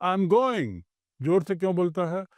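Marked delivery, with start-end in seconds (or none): 0.0-0.8 retold shout. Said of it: "फिर जोर से चिल्लाता है".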